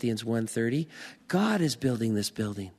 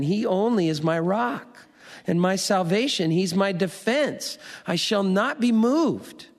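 proclaimed scripture; 5 semitones higher, 4 dB louder than usual. Acted. Preacher quoting a psalm aloud.

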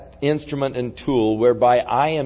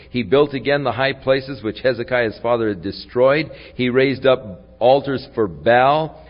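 raised, emphatic Bible reading; scripture reading; 3 dB louder than usual. A narrator's reading. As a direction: read scripture out to a congregation. Reads scripture aloud to congregation.

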